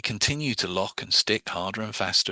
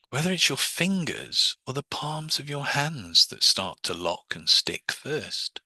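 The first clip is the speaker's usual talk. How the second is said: hypnotic suggestion; 3 semitones higher, slower than usual. Shown as a demonstration. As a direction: draw out the ending to suggest. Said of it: "so I'm getting you to imagine it again".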